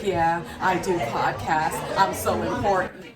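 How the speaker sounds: slow, grave mock boast that trails into a laugh; pompous bragging. Mocking the serious podcaster guy bragging at an event, slow and pompous. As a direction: puff it up, very slow and self-important. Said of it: "And he's, like, going into".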